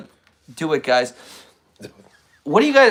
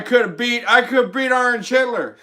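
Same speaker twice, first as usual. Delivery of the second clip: lightly voiced Biden bragging; mock Biden boasting; Biden impression. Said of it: "It's my Biden wig".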